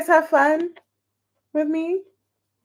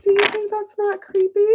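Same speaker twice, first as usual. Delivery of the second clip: retold indignant question; 10 semitones higher than usual. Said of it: "I was like".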